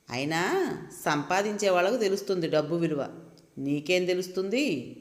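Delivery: lightly voiced husband's sneer; mocking husband. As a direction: taunt his wife, half-mocking. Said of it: "ఎగతాళిగా అంటున్న తన మాటలు". (ఎగతాళిగా, తేలికపాటి వెక్కిరింపు)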